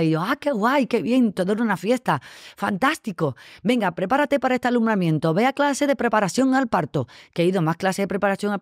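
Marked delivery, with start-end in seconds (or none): 0.2-7.1 bright, higher, gushing mock joy; giddy mock excitement, a little higher; mock delighted. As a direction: play the thrilled new mother-to-be. Her own naive happy reply.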